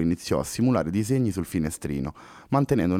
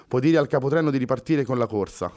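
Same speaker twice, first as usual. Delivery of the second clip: decisive; 5 semitones higher than usual. Acted. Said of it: "replicò deciso Pessoa".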